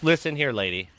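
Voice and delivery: high, loud scolding of a lady; imagined rant. Pretend. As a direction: lecture her in an imagined tirade. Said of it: "I wanted to get up and be like".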